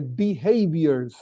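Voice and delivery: "behaviors" stretched out slowly; slow, deliberate weight on "behaviors"; stress on behaviors. Real, not acted. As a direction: dwell on the word "behaviors". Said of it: "I stress this word".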